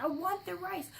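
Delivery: put-on high, loud crying whine of a tired two-year-old; imitating toddler crying. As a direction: wail it like an overtired toddler begging for rice. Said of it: "He's like".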